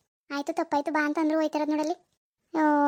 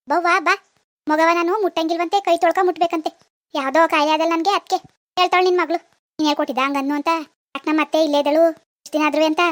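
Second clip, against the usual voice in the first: loud aggrieved complaint; 4 dB louder than usual. Acted. Grandmother complains loudly to mother.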